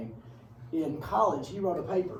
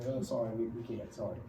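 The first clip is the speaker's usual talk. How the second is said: mock apology; 5 semitones lower, 7 dB quieter than usual. Voices America declining again.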